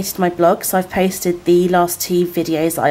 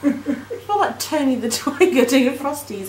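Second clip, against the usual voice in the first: face covered by wet mask; through a sheet mask; 3 semitones higher than usual. Real, not acted. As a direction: lips stiff under mask. Seen 1: Wet tiger-print sheet mask covers her face while she speaks; hands press cheeks.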